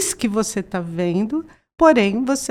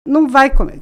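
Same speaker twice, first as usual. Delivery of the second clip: stern no; 4 semitones higher, 6 dB louder, faster than usual. Retold or imitated. Mother refusing child chocolate.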